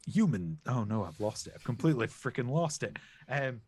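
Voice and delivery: put-on crocodile with Australian accent. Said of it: "Now I'm going Australian".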